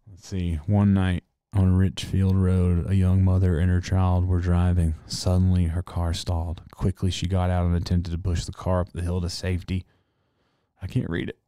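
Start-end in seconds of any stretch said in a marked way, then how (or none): 0.7-9.8 measured, slightly lower story-reading voice; steady narration of a ghost legend; reading legend aloud. Acted. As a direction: read it out evenly like a printed local legend. Reads the folklore text aloud.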